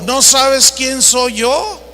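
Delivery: mock haughty, slow rising question; a touch of drawn-out self-importance. Preacher mimics the typical arrogant person, mildly haughty. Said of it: "Habla de altanería ... El típico".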